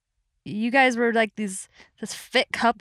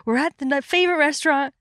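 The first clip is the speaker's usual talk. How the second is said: higher-pitched mock inner voice; acted inner monologue; 6 semitones higher than usual. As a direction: play her building expectations. Voicing friend's thoughts in story.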